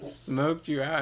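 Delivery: explaining with a gesture. Retold or imitated. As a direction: spell it out for him. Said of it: "I made a gesture like".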